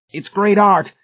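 high, loud strained croak. A narrator's reading. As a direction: croak out a desperate defence. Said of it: "McFaith croaked".

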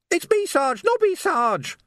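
high-pitched, insistent call; urgent calling. Acted. Nobby calling to his sergeant, urgent.

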